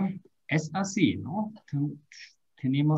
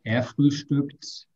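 Er frühstückt again, slower and calmer; slower repeat; slower than usual. Shown as a demonstration. Teacher repeating the drill for a student, slow. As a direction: repeat it once more for the student. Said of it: "Ya vamos a entrenarlo".

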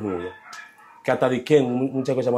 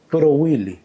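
friendly call; 5 semitones higher, 5 dB louder, slower than usual. Retold or imitated. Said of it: "mira cómo hizo".

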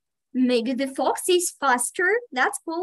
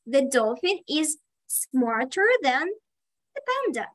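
delighted praise. Real, not acted. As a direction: swoop up on "panda" in approval. Praising pupil's correct sentence.

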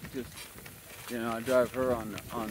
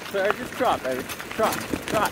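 higher, firm command to the horse; urging command; 8 semitones higher, 4 dB louder than usual. Real, not acted. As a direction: push her into a trot.

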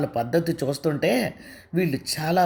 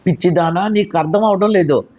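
higher, scolding and indignant; angry; 3 semitones higher than usual. Acted. Neelima scolds Anusha about the other woman, angry. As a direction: lecture her friend hotly. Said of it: "అంది కోపంగా నీలిమ".

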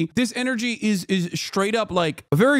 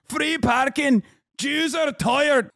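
much higher, slow, exaggerated "Jews are tired"; mocking repeat; 8 semitones higher, slower than usual. Repeating Eve Fartlow's line, high mocking singsong. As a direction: parrot her line, dripping with ridicule.

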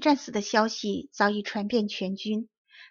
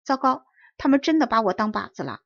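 a touch of alarm, called out louder; startled cry; 5 dB louder than usual. Acted. Boy in the tree calling down after a near miss, mild alarm. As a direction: cry out as the bullet whistles past. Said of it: "少年惊叫道".

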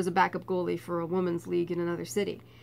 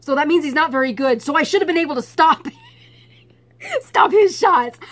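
higher and much louder, slowing at the end; indignant huff; 6 semitones higher, 11 dB louder than usual. Retold or imitated. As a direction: scoff like a cocky teen who lost. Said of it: "I was still so mad".

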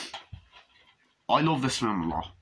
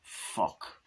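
whispered curse; 6 dB quieter than usual. Retold or imitated. Tense scene, muttered reaction.

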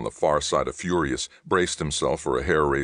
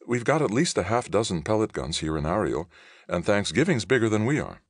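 arguing; 7 semitones higher than usual. Acted. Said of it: "Chris argued".

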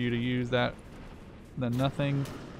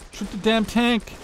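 angry shout; 9 semitones higher than usual. Real, not acted. Repeating order, frustrated.

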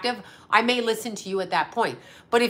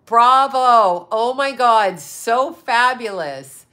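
effusive praise; 6 dB louder, much slower than usual. Real, not acted. Applauding a viewer's divorce.

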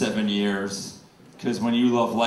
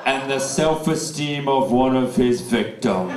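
gypsy curse voice; slower than usual. Retold or imitated. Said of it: "she was like".

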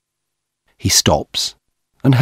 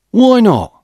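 high, louder indignant why not; angry retort; 13 semitones higher, 4 dB louder than usual. A narrator's reading. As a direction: fire the question back, affronted. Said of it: "Peter asks angrily".

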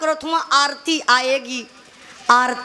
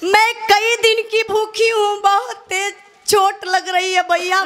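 higher, pained plea of a beaten widow; pained pleading widow; 5 semitones higher than usual. Acted. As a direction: beg them to stop hurting you. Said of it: "आरती बोलती है".

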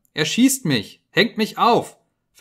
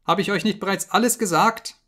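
high, loud panicked begging; desperate pleading scream; 9 semitones higher, 7 dB louder than usual. Acted. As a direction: plead for your life, voice cracking upward. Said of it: "schrie er".

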